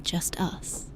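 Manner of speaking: softly whispered admission; tender whispered confession. Acted. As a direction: breathe it close to the ear. Intimate lover whispering to listener.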